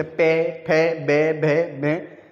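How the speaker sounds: पे फे बे भे में said one by one, lips pressed together; teacher demonstrating पे फे बे भे में for the class; sounding out lip syllables. Shown as a demonstration. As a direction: close the lips firmly on each of पे फे बे भे में. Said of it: "हमारे जो लिप्स हैं".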